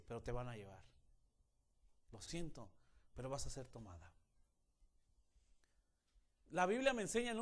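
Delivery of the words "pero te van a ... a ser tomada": lower, softer, grim imitation of the father; film father's line. Preacher retells the father's line to his daughter: lower, softer, grim. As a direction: say it low and cold like the movie dad.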